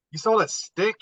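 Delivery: put-on a dad stunned that his kid sold a stick; incredulous. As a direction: ask it like you can't believe your ears. Dad hears daughter sold stick.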